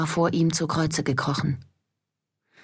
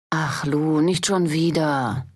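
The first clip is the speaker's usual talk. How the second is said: exasperated sigh; slower than usual. Acted. Guard weary of Lou again.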